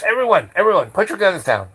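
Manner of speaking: imitating an officer calling out; urgent shouted order. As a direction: call urgently to the whole squad. Chief calls officers to stand down.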